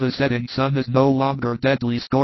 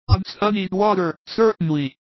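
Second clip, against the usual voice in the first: obliging Thomas; 7 semitones higher than usual. Acted. Thomas offers the child his flask.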